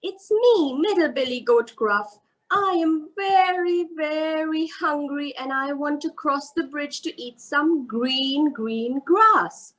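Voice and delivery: lightly voiced middle goat. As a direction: sound like the hungry middle brother. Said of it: "And the goat said".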